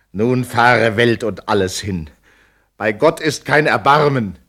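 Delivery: Lenore cries out her despair; despairing outcry. Acted. Lenore's despair at lover's death.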